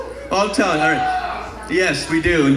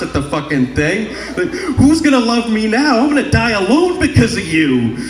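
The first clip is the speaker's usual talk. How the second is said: hammed-up wounded outburst, pitch climbing at the end; mock heartbroken whining plea; distraught, pleading; 4 semitones higher than usual. Dumped man protesting to his girlfriend, distraught.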